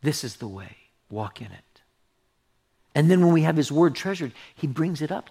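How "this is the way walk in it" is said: voice of God. Retold or imitated. The Lord redirecting the pastor on his way, soft. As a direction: hurry the redirect softly, then settle. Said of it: "the Lord says".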